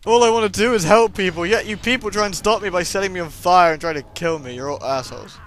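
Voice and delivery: a lightly voiced outraged monster; indignant monster rant. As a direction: whine like a wronged monster.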